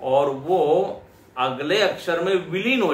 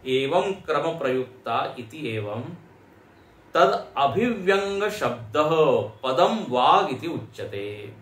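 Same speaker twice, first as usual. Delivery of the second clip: slow recitation. Acted. Teacher recites Shankara's commentary.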